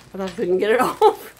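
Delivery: amused at the stuck ring; laughing. Real, not acted. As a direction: giggle through the words.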